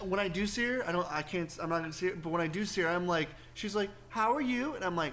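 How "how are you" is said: put-on light sweet old lady voice; chirpy polite old lady; elderly singsong. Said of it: "she's got a cute little old lady voice".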